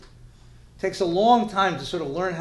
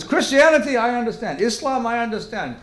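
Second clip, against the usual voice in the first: put-on Asian accent, building; 4 semitones higher, 6 dB louder than usual. Asian professor challenging the rabbi about God, building Asian accent. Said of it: "a little bit of an Asian accent".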